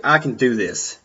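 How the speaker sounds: firm, steady self-talk; with conviction. Shown as a demonstration. Coaching himself before a speech, with conviction. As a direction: say it like you mean it. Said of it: "You say it with conviction".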